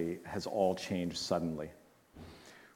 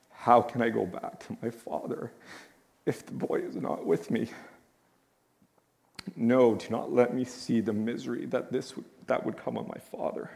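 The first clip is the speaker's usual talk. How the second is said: holding back tears; 2 semitones higher than usual. Real, not acted. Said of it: "He's weeping more than I am".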